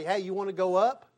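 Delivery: playful question with a laugh; cheeky come-on line in the elevator; elevator pitch demo. Shown as a demonstration. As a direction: ask it lightly, grinning. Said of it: "look at the people and say".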